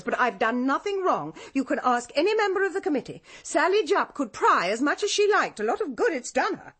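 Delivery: a defensive woman flares up at the police; indignant outburst. Acted. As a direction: lash out in wounded pride. Defensive outburst under police questioning.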